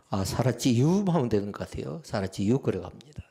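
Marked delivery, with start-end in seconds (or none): 0.1-1.1 lightly imitated Chungcheong drawl ending; Chungcheong dialect. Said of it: "충청도 사람은 어떻게 했을까요?". 2.0-2.6 lightly imitated Chungcheong dialect. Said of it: "충청도 사람은 어떻게 했을까요?".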